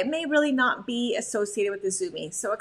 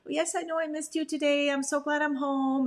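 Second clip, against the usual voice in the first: affectionate greeting; 4 semitones higher than usual. Acted. Owner greeting dog, acted.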